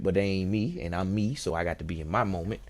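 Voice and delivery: normal talking voice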